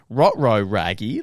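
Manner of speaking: badly faked cartoon dog impression; half-hearted talking dog, barely changing the voice; Scooby-Doo. Mocking a mate's bad impression, half-hearted cartoon dog. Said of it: "like, Scooby-Doo impression".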